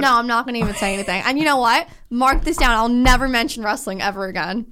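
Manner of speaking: worked up and put out, pitch lifted a little; huffy. Real, not acted. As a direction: huffily swear off the subject for good. Mock-huffy refusal to discuss wrestling.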